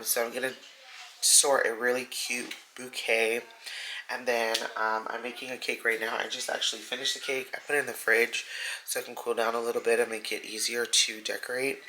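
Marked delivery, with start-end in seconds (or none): 5.1-11.8 slightly breathless, short of air; out of breath. Real, not acted. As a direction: talk while catching your breath. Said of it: "Sorry, I'm out of breath".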